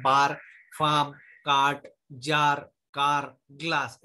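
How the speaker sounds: बार, फार्म, काट with a long open "aa"; slow drill of the aa sound in बार and कार; आ vowel demo. Shown as a demonstration. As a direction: say बार, जार, कार one by one with a drawn-out आ. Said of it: "ए स्वर का आ से ऐसा उच्चार".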